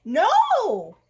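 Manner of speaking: loud, high curt no; firm call. Acted. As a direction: snap a loud no from inside. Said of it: "said the voice".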